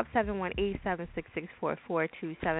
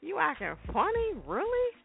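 much higher mock voice, offended; indignant friend; 10 semitones higher than usual. Old friend calling out a friend who acts funny, high mock indignation. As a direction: squeak it out like an outraged old friend.

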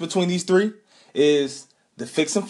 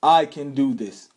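slow, emphatic chant to repeat; rally speech; slower than usual. Shown as a demonstration. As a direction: lead the crowd in the chant. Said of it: "Say it with me".

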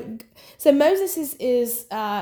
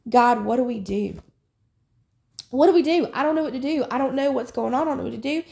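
anxious pleading; 2 semitones higher, faster than usual. Retold or imitated. Recalling her plea to God about war, anxious pleading. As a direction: plead with a touch of helpless worry.

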